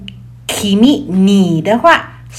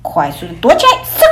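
quick hushed hide; 6 semitones lower, faster than usual. Acted.

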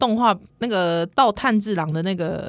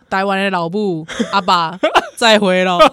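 mock tearful farewell; 6 dB louder than usual.

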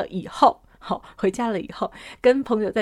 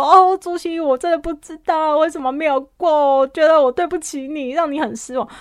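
sad apology; 5 semitones higher, 5 dB louder than usual. Retold or imitated. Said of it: "他就很难过".

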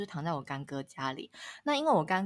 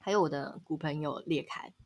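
usual speaking voice

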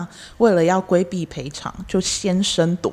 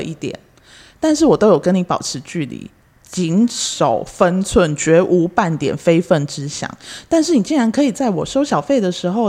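loud, high indignant tirade; indignant rant; 4 semitones higher, 3 dB louder than usual. Acted. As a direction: scold her, building outrage.

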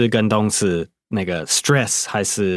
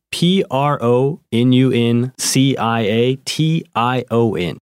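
slow spelling; slower than usual. Shown as a demonstration. Co-host spells the noun for students. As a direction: spell P R O N U N C I A T I O N slowly, letter by letter.

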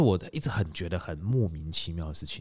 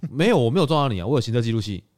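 louder, higher retold protest; indignant denial; 4 semitones higher, 6 dB louder than usual. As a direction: insist you didn't hit her. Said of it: "我说". (大声反驳)

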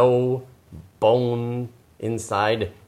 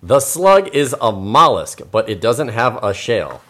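storybook narration; 5 dB louder than usual. Acted. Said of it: "let's read right here".

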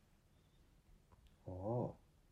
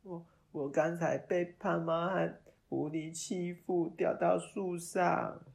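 timid confession; 9 semitones higher, 7 dB louder, slower than usual. Acted. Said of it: "一五一十地说出事情".

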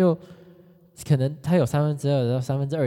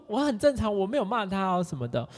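usual speaking voice

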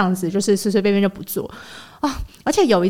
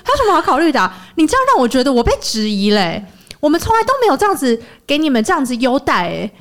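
raised, heated voice imitating the boss; hysterical rant; 4 semitones higher than usual. Imitating the boss berating the mother. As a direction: replay the boss scolding the parent. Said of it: "他就对家长说".

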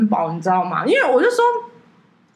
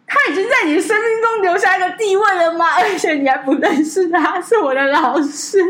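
拔高音调、放慢语速的夸张反问; 假装震惊地质问朋友，慢慢说; 夸张反问; 8 semitones higher than usual. Retold or imitated. Mock-asking friend in retold scene. (拔高嗓门，慢悠悠地夸张反问)

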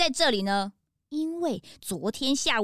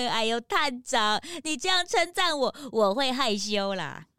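bashful; 4 semitones lower than usual. Acted.

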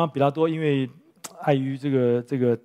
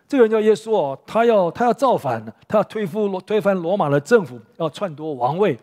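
accusing; 3 semitones higher, 5 dB louder than usual. Retold or imitated. Jews accusing Jesus before Pilate.

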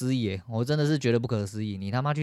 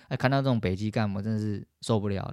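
ordinary talk, nothing marked

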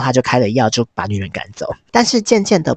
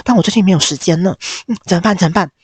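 flustered panic; 6 semitones higher, faster than usual. Retold or imitated. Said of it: "克拉拉就吓到说".

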